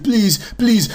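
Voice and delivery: high-pitched mock pleading; hammed-up beggar woman's plea; imitated begging mother. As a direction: beg in a put-on high whine. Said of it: "his mother comes by. She's like".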